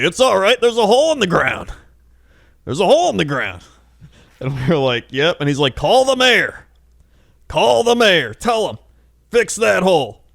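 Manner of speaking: put-on high, loud, adamant old-man squeak; hammed-up creepy old guy insisting; creepy old Bilbo. Retelling the creepy old guy at the Ren Fair, high and insistent. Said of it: "this guy ... looked like Bilbo Baggins when he's a hundred years old".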